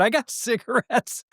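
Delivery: high, eager voice for the audience offering smokes; eager churchgoers. Retold or imitated. Churchgoers calling out to the agitated visitor, eagerly offering cigarettes. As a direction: chirp it like a helpful congregant.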